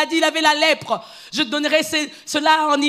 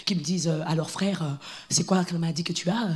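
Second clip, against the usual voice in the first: lower, softer grumbling; a believer sulking about being humbled; proud complainer; 9 semitones lower, 9 dB quieter than usual. Retold or imitated. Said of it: "lui, il a dit". (un fidèle orgueilleux qui râle à voix basse)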